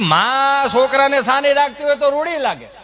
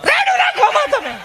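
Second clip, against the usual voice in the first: much higher squeaky comic line; mock shrill voice. Mocking the wife's reply in a high squeak. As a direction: squeak it up in a silly falsetto.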